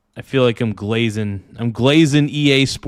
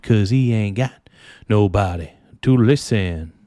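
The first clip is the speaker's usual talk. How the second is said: singing a song in a put-on Italian accent; Eurodance accent; 3 dB quieter than usual. Streamer sings a song to chat in a mock Italian accent. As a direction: croon the song's lyrics with a foreign accent. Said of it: "I'm doing it in that accent".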